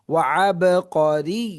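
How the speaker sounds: আব drawn out with a rising chant; slow recitation. Shown as a demonstration. Teacher leads the class in slow chanted recitation. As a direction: chant ওয়া আব করি slowly. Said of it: "teacher models recitation".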